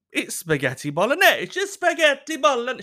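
loud, high mock protest; put-on indignant insistence; defensive missus. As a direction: imitate a partner insisting, pitch climbing. Acting defensive missus answering.

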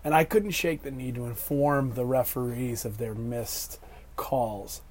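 hoarse voice after shouting at refs; raspy, worn-out voice; smoker's rasp. Real, not acted. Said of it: "I sound like a lifelong chain smoker right now".

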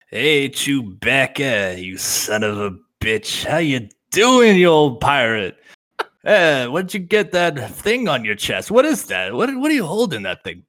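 a hint of Lando, slow and taunting; lightly voiced smug smuggler teasing his friend; mock trash talk to Chewbacca, slow; Lando Calrissian trash talk. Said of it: "All right, Lando Calrissian".

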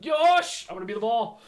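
fired-up anime hero yell; Sanji. Retold or imitated. Fan acting out the flattered reply about being the ball, pumped-up shout. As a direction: imitate an eager hero, loud and high.

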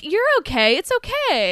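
soothing imitation, climbing high; mock reassurance. Wife answering husband who saw her in Venice, over-reassuring. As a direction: placate him in a put-on voice, rising in pitch.

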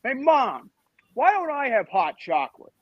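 put-on jealous kid calling Mom. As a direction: play a lightly whining, envious child. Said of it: "I'm jealous 'cause I don't have".

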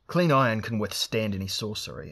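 a pushed, half-hearted battle cry; forced shout. Acted. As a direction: force out a mild shout to find courage. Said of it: "forced himself to shout".

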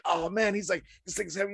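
lightly voiced Charlie groaning under the weight; straining complaint. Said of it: "you can hear Charlie".

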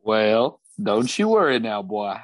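easy Southern cowboy drawl; a hint of a Southern cowboy accent. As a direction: reassure the goblin in a Southern drawl. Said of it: "Thornbuckle's accent".

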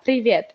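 "Привет" repeated the Russian way, pri-VYET, stress on the last syllable; Russian greeting. Shown as a demonstration. Recommending the easier greeting to the interviewer, native pronunciation. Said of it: "the latter".

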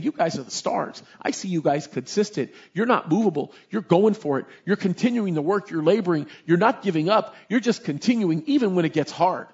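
a lightly voiced God, calm and approving; God's gentle praise. Voicing God praising Ephesus.

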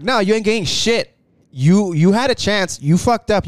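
imitating an indignant manager; retold angry refusal. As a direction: play the manager putting a customer in their place. Acted quarrel, manager refusing customer.

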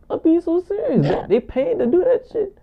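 put-on squeaky falsetto; high-pitched voice. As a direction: insist in a mock high voice. Keeps up mock high voice.

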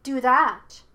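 put-on high, loud child's cry; childlike voice. A narrator's reading. Hidden spirit taunts Yue from another tree, childlike. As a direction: call out like a child. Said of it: "high-pitched like a child".

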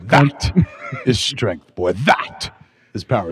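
slow, drawn-out villain line with a laugh breaking in; mocking the emphatic villain. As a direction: ham up the villain's big pause. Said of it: "He was so emphatic".

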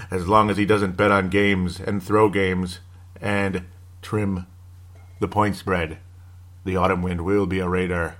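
drawn-out, low mock-epic narration; mock dramatic recitation. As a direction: recite an improvised verse in mock solemnity. Continues mock Autumn Wind poem.

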